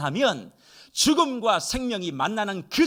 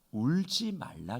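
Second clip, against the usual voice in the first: whisper; 5 semitones lower, 6 dB quieter, slower than usual. Acted. Quoting Jesus to the widow.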